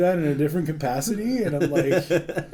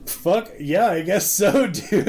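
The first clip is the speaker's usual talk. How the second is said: hyped-up cooks; 6 semitones higher than usual. Retold or imitated. Cooks voiced, amused.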